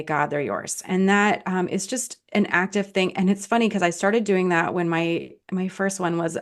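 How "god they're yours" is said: breathed prayer. Shown as a demonstration. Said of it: "breathe out and say".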